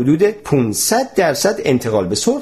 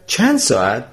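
repeated in disbelief. Acted. Mr Tompkins echoes the professor's words in disbelief. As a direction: echo چند ساعت as a rising, stunned question. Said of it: "آقای تامکینز تکرار کرد".

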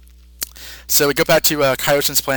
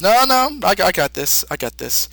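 a hint of high old-man insistence; lightly voiced old man, brushing it off; 3 semitones higher than usual. The old Kai insisting he's got this, lightly voiced. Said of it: "the old Kai says".

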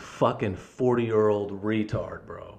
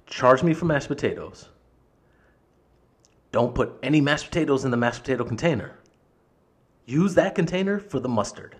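emphatic, retold angry instructions; exasperated insistence; 3 semitones higher, 4 dB louder than usual. Customer explaining container workaround to manager, exasperated.

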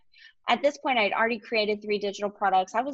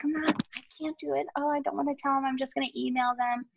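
higher, fast, panicky retelling of cold feet; imitating nervous self; 5 semitones higher, faster than usual. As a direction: replay your scared past self, rushing. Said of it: "you know, I was chicken".

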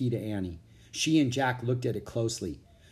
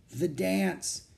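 dazed knight; 7 semitones higher than usual. A narrator's reading. Dazed knight recalls the dance.

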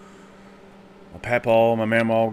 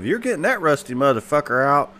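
mama voiced higher, louder at the end; loud old mama; 5 semitones higher, 4 dB louder than usual. Mama telling papa she needs a tetanus shot, louder at the end. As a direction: land the punchline loud. Mama's punchline.

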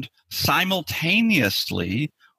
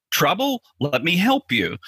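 voicing the amygdala; 5 semitones higher than usual. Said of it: "the amygdala goes".

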